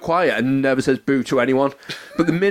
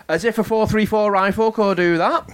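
put-on old man voice; 6 semitones higher than usual. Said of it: "Like, really loudly".

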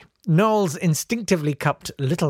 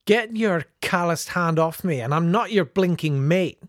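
a touch of stern, gruff Campbell; stern reply; 5 semitones higher than usual. Acted. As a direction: put him in his place, lightly stern. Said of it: "came the stern reply".

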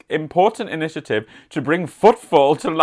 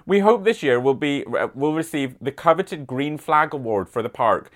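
light mock West Country accent on the line; a hint of a rural West Country accent. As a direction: read it with a gentle West Country burr. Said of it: "I can't do this accent anymore".

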